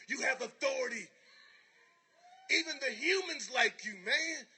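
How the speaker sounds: building from an urgent question to a high, loud pleading shout; bee's rising plea. Retold or imitated. Bee shouting at the butterfly, building from plea to cry. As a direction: bee pushing the butterfly to wake up, swelling to a shout. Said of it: "And he's like".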